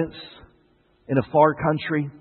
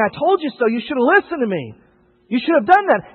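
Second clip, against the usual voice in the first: mock gloating; 8 semitones higher than usual. Mocking the judgmental attitude.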